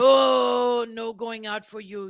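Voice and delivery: sing-song pet voice; baby talk to kittens. Pretend. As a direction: coo at the kittens playfully. Talking to the kittens.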